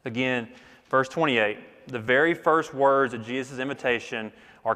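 ordinary talk, nothing marked

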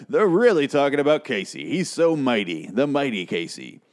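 hammed-up gushing, starting high, dropping at the end; mock the breathless hype, drawing out the praise; mock awe. Mocking far-off paper hyping Casey.

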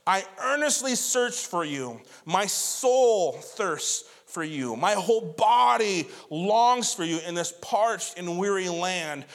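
slow, drawn-out psalm plea; crying out to God. Acted. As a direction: cry out to God, stretching the key words. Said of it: "He's crying out in this".

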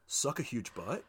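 soft, "butt" lifted like a question; deadpan insult with "butt" curling upward; mock uptalk. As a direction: deliver the insult as a polite question, rising on "butt". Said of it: "If it goes up at the end".

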